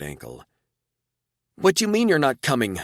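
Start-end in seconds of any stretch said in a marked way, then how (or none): 1.6-2.8 loud disbelief. A narrator's reading. Frankie disbelieving, still loud.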